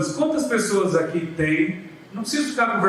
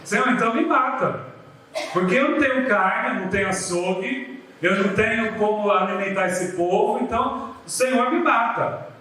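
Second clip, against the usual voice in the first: mock drama; 3 semitones higher than usual. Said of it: "foi fazer o drama dele".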